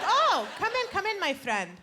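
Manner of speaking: mock welcoming immigrant dad, high start; hammed-up proud father inviting them in; imitating dad. Dad greeting Jehovah's Witnesses at the door, mock welcoming.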